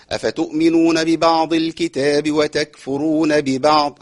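slow, drawn-out chanted recitation; Quran recitation. Acted. Teacher recites the verse for the class. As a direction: stretch the long vowels slowly.

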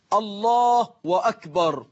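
الله drawn out into "Allahuu-wakbar"; damma lengthened into waw. Shown as a demonstration. Teacher shows a worshipper's mistake, الله ending in a long "huu-wa". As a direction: stretch the end of الله into a w before أكبر. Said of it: "إشباع ضمة لفظ الجلالة حتى تتحول إلى واو".

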